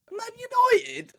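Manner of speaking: high, loud shout of the club name; yelled team name. Retold or imitated. Drunk stranger at the bar bellows his team, shouting high. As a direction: bellow it like a terrace chant. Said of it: "he was like".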